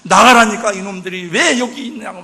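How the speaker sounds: explosive retold outburst. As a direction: yell an order at people who won't leave. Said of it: "더 크게 소리를 지르는 거야".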